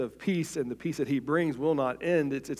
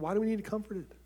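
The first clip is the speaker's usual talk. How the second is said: higher, excited and bewildered disciples; puzzled disciples; 7 semitones higher than usual. Acted. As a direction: play the confused followers who think all is fine. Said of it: "And they're like".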